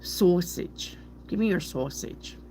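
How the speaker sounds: put-on Brooklyn "saw-sage"; Brooklyn accent. Reader demanding sausage as a New Yorker, Brooklyn accent. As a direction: play a light Brooklyn accent on the vowels. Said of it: "sounds like you're from Brooklyn".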